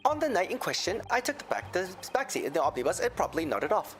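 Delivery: a lilting Irish brogue; Irish accent. Acted. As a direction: tell it like an Irish witness. McGilded testimony in accent.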